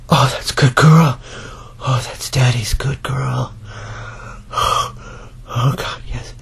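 slow, softening praise; winding down. Acted. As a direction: ease down slowly into a whisper.

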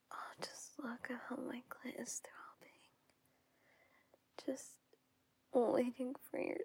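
intimate seductive whisper. Acted. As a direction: whisper close to the mic.

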